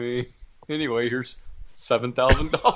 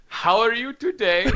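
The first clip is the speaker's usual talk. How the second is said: higher-pitched mock Hispanic accent; imitated Hispanic accent; 10 semitones higher than usual. Scam caller greeting his mark, imitated Hispanic accent. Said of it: "and he was Hispanic".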